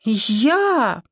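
high-pitched, halting sob acted lightly; hesitant, upset, pitch lifted; tearful stammer. A narrator's reading. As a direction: stammer it out through mock tears. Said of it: "отчаянно всхлипнула".

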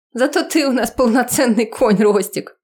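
high, teasing party jab; excited teasing. Acted. Girl teasing Rostik at a rowdy party, high and playful. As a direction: tease Rostik over the noise.

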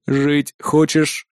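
low, very slow, detached synthetic voice; a machine weighing whether to save him; cold android voice. Acted. Android voice questions trapped man.

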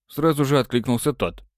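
ordinary talk, nothing marked

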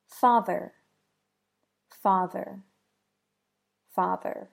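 "father" with a buzzing voiced th; "father" with the voice kept on through the th. Shown as a demonstration. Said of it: "If you guessed voiced".

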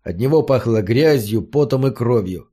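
plain reading voice

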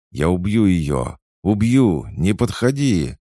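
high, loud, desperate threats; sobbing threat. A narrator's reading. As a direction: threaten hysterically to keep it away. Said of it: "зарыдал бандит".

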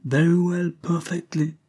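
high-pitched English gentleman; British accent. A narrator's reading. Englishman answering an insult, high British accent. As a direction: take it in stride, very British accent. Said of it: "un accent britannique des plus prononcés".

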